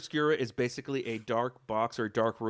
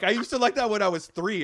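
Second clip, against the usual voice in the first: mimicking Brittany; 10 semitones higher, 5 dB louder than usual. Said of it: "Or like".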